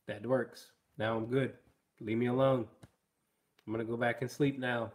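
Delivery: lightly voiced dog's thoughts; dog thinking aloud. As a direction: speak as the lazy dog. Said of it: "this is him thinking out loud".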